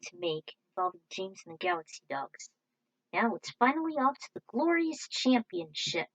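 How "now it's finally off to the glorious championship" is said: excited. Real, not acted. Hyping the final championship.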